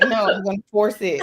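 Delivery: laughing. Retold or imitated. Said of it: "It's like".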